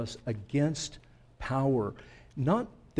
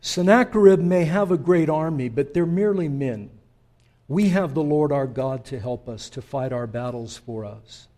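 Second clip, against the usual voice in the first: rallying speech; 6 dB louder than usual. Acted. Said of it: "Hezekiah made a speech, and he said this".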